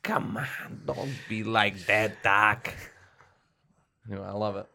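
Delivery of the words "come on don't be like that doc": Viggo Mortensen. Retold or imitated. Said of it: "Viggo Mortensen in The Green Book".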